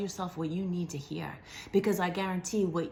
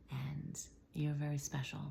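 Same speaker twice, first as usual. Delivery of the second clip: whisper; 3 semitones lower, 9 dB quieter than usual. Real, not acted. Intimate reassurance to viewer.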